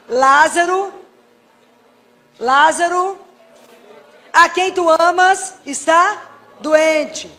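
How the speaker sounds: loud, slow, drawn-out prayer; prayed aloud. Shown as a demonstration. Pleading with Jesus for sick Lazarus, loud and drawn out. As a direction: call the name out to Jesus slowly. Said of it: "eu rezo a frase".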